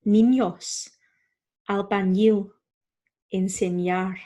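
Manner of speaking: niños, albañil, enseñar with Ñ said as NY; spaced-out model of NY in niños, albañil, enseñar; Spanish Ñ. Shown as a demonstration. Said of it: "makes a new sound".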